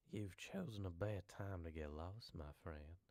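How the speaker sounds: lightly creepy hillbilly; a hint of menace, soft at the end. Shown as a demonstration. Voice line for a lost traveller, mildly creepy. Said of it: "I need to make it sound creepier".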